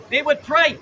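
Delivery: preaching shout; fervent zealot intensity. Real, not acted. Street preaching to crowd.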